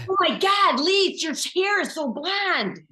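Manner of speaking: high, gushing small-talk voice, then settles back down; a neighbor gushing over a hairstyle; plain Grosse Pointe talk. Retold or imitated. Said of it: "that's what Italian people talked like".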